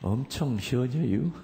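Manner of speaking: light Chungcheong accent; simple Chungcheong lilt; Chungcheong dialect. Shown as a demonstration. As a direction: stretch the ending in Chungcheong style. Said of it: "충청도 말로는".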